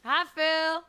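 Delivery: calling out. Acted. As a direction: call out a greeting. Calling out to Phil.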